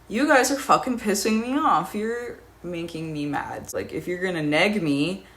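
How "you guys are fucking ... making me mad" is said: retold yell. Yelling back at taunting strangers.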